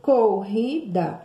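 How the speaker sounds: "Corrida" stretched very slowly with a raspy throat R; slow guttural R demo. Shown as a demonstration. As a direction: drag out "Corrida", scraping the double R. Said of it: "som de arranhar a nossa garganta". ("Corrida" bem devagar, arranhando a garganta no RR)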